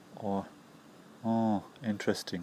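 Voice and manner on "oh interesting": flat monotone with no interest. Example reply to a rumour that shows you're not interested: uninterested. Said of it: "It shows that you're very uninterested because of the intonation".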